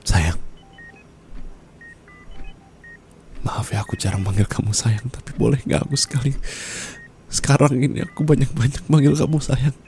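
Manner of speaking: a dying goodbye, barely holding on; weak low farewell. Acted. Dying spouse bidding partner farewell, low and weak.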